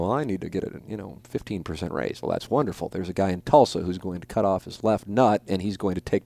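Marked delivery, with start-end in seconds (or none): 0.0-2.2 mock raise request. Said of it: "you go in and go".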